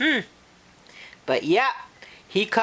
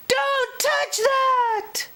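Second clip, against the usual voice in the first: much higher, slow urgent warning; warning yell; slower than usual. Acted. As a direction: yell to stop her. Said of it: "Her father yelled".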